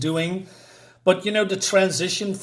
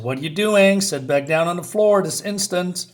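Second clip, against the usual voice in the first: raised, louder command, retold; acted stern order; 3 semitones higher, 4 dB louder than usual. Ordering her back down on the floor, mock stern command. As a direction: give a mock-urgent order.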